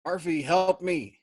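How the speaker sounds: loud, high desperate plea; wounded man begging his crewmate for help; pleading, almost weeping. Acted. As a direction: beg for help near tears. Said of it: "he pleaded, almost weeping".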